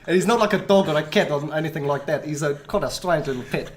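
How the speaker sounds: playful put-on South African accent, laughing through it; a guest in role, broad South African. Guest answering hosts in a put-on South African accent. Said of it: "Can you tell us what you do in South African then?".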